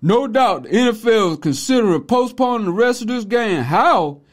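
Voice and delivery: rushed, blunt read that skips the pauses; careless misreading. Shown as a demonstration. Mocking how retired athletes read the tweet, blunt and careless. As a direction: blurt it out with no pauses, ending on a baffled How. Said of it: "Let me tell you how they read this tweet".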